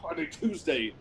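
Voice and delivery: put-on a light touch of French accent; lightly voiced French lover. Frenchman offering a Tuesday serenade in a light French accent. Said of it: "I love your accent".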